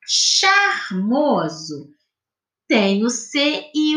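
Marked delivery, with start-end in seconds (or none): 0.0-1.9 charmoso said very slowly and clearly; teacher's example word. Shown as a demonstration. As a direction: lay the word out for the class. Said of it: "Quando a gente fala".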